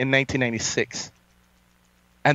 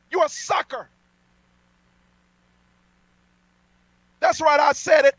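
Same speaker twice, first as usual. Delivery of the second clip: preaching at full force; 12 semitones higher than usual. Acted. Preacher defying NBC and the syndicates, fiery preaching. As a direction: thunder it at the enemies from the pulpit.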